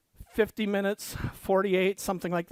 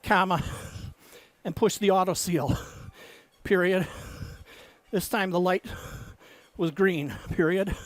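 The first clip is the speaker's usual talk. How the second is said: dictating. Acted. Dictating novel text with punctuation.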